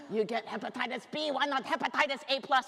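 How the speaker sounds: lightly voiced Asian dad accent; a hint of a stern Asian dad accent, scolding; hint of an Asian accent, father mocking grade. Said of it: "I did say that with the accent".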